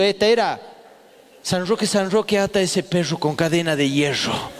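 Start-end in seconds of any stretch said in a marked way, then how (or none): 1.4-4.6 rezo de monaguillo. Retold or imitated. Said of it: "otra más infalible que era de monaguillo".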